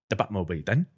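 lightly voiced British actor impression; a touch of the film star's British accent; Michael Caine. Guest repeats the line friends requested, Michael Caine voice. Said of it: "he would always say".

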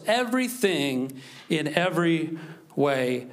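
measured, emphatic Bible reading; scripture reading. Acted. Pastor reading scripture aloud to the congregation, emphatic and measured. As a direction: proclaim each phrase with swelling emphasis.

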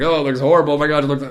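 lightly hammed-up horror; over-the-top reaction. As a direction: imitate friends overreacting. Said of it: "so over the top reacting".

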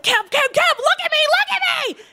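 put-on a girlfriend on the floor desperately calling to Kev; frantic pleading. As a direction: plead with rising panic. Begging partner to look.

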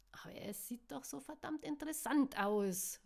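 high, excited protest; called out. A narrator's reading. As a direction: call back eagerly, pitch lifted. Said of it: "rief sie".

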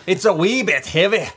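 a bad Shrek impression. Host does the beer line as a bad Shrek impression. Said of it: "try to do like Shrek".

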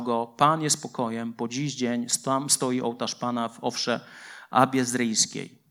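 steady, measured Bible reading; scripture reading. Acted. Preacher reading Gideon's story aloud, measured. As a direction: read the passage to the church calmly.

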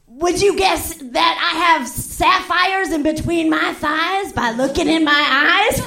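slow, crooning mock seduction; lightly hammed smooth rhyme; rhyming showman. Comic imitates the rhyming performer for the crowd, slow crooning. Fancy Ray's rhyming act voiced.

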